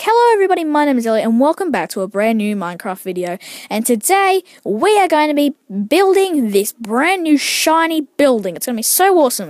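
big enthusiastic show-host delivery, stretching the hype words; video intro voice. Shown as a demonstration. YouTuber showing listeners how he sounds in videos, hyped intro voice. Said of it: "I normally sound like this".

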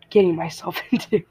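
words bubbling with leftover laughter; laughing through words. Real, not acted. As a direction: say it still giggling at yourself. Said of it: "I'm laughing at myself".

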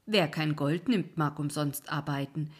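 put-on the lights jeer at the old man; a lightly voiced wisp taunt; mocking wisps. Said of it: "riefen die Irrlichter".

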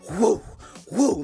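short "whoo" of effort, retold; two quick mock whoops with a pause between; imitated heaving whoop. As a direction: mimic the whoosh of heaving a ball upward. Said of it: "and I just started".

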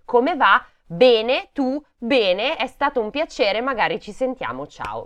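high, polite pleasantries, dropping off at the goodbye; mock small talk. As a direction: imitate forced chit-chat to escape quickly. Mimics forced small talk with acquaintances.

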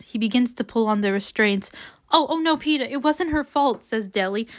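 measured audiobook reading with acted dialogue; story narration. A narrator's reading. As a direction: read the novel aloud, lightly voicing the dialogue.

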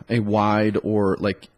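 blocked nose from a cold; stuffed up. Real, not acted. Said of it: "I sound like I have a cold".

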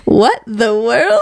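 mocking mishearing. Shown as a demonstration. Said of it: "But it sounds like you said".

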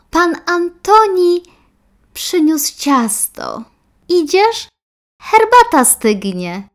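mother calling out for her daughter. Acted. Mother invites to salon.

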